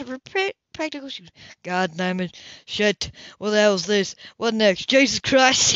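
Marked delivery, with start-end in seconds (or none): 1.6-5.7 swearing, building to a loud curse; vicious oath. Acted. Cam swears at the overflowing dishwasher, mock angry. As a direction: curse the flooded dishwasher, mild anger rising. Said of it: "his quick and vicious oath".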